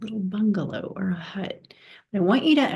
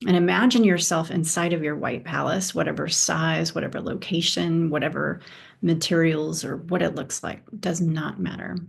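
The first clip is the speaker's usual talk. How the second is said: measured delivery with long pauses for imagining; unhurried guide, leaving space after each prompt; guided meditation. Real, not acted. Teacher leads listeners through imagining a white palace, guided meditation.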